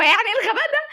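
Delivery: giggling at your own dumb comment; laughing. Real, not acted. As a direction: crack up at your own silliness. Laughs at her own silly remark.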